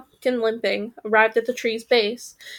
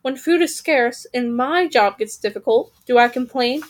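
aggrieved raven. Acted. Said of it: "said the second raven".

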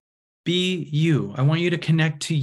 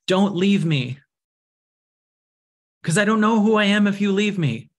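put-on higher, clingy child's plea; pleading little girl; 7 semitones higher, 3 dB louder than usual. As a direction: beg like a child afraid of being left. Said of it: "it's a little girl going".

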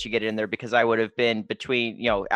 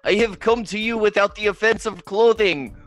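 formal alien voice; 9 semitones higher than usual. Acted. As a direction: announce peace like a grand envoy. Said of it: "Major Tom has all their limbs spread wide".

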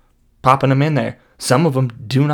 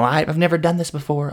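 nervous coworker voice; 4 semitones higher than usual. Acted. Nervous Carol at office potluck.

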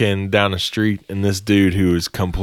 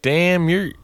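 put-on high, sneering drunk voice; drunk creep; 9 semitones higher than usual. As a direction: start to insult, mock drunk. Drunk man turning nasty.

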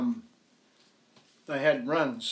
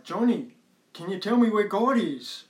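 louder, a touch impatient; raised voice; 7 semitones higher, 9 dB louder than usual. Acted. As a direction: raise your voice a little. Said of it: "starts raising his voice a little bit".

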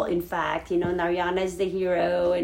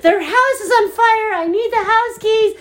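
much higher, louder, half-laughing urgency; urgent alarm; 12 semitones higher, 7 dB louder than usual. Retold or imitated. Waking her sleeping niece about the fire, high urgent laughing alarm. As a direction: burst in with urgent news. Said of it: "burst into her room going".

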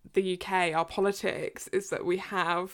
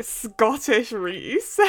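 drawn out; 2 semitones higher, 4 dB louder, much slower than usual. Real, not acted. Joking about Scottish Rhys, stretched out.

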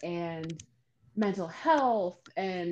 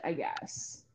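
whispered; 4 semitones lower, 8 dB quieter than usual. Real, not acted. Trails off at turn end.

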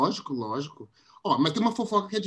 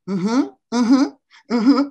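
mock eager aham; 5 semitones higher, 6 dB louder than usual. Mimicking eager gossiping friend.

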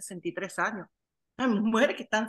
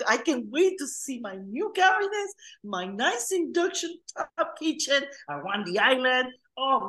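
celebrating; 4 semitones higher, 3 dB louder than usual. Retold or imitated. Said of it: "pega a celebrar".

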